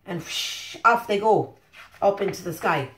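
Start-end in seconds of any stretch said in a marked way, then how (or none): 0.1-0.8 breathy whispered whoosh. A narrator's reading. Reader to children, whispered whoosh. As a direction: blow the word out like wind. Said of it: "whoosh sound".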